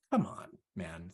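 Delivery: mildly exasperated, drawn-out plea; slow, weary annoyance at a child; annoyed. Retold or imitated. Dad annoyed with his upset son, mildly exasperated. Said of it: "get super annoyed".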